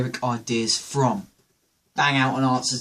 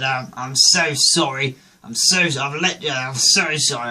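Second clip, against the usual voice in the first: mock-posh English apology; hammed-up upper-class apologising, stumbling over it; posh accent; 4 dB louder than usual. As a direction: imitate a flustered posh drunk. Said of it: "still talking poshly".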